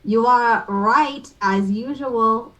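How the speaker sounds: slow, mock French accent. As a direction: lay on the French lilt lightly. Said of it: "I don't know what the accent was".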